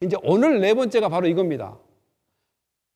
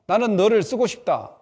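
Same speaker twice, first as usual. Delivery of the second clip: voice of God; 3 semitones higher, 5 dB louder than usual. Acted. God's call voiced in sermon.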